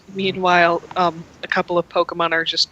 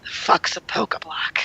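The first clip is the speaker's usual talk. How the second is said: deadpan grump; 5 dB quieter than usual. Acted. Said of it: "he just kind of stares".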